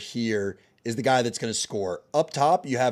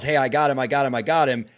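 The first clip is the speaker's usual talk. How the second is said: loud call to a teammate on the field; cornerback yelling; 6 dB louder than usual. Retold or imitated. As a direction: shout it across to the safety. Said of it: "the cornerback just yells".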